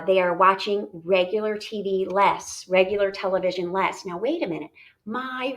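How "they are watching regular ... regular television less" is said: measured classroom read-aloud. Shown as a demonstration. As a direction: read each word deliberately to the class. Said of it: "with our reading voice".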